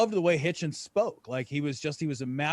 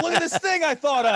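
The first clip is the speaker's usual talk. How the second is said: high, louder eager pitch; mock eager; 11 semitones higher, 6 dB louder than usual. Showing Jacob a new idea, hammed-up eager pitch. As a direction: show off the idea like a proud kid. Mocking own eager younger self.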